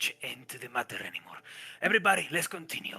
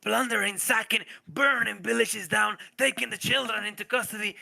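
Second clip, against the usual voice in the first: higher and faster as the horrors pile up; rising indignation; 4 semitones higher than usual. Acted. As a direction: build the outrage line by line. NPC recounts atrocities, building up.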